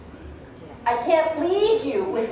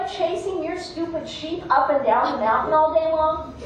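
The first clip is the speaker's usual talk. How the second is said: indignant, aggrieved dog; mildly heated, acted scolding; resentful rant; 2 semitones higher than usual. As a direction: pile up bitter grievances. Dog airs grievances against man.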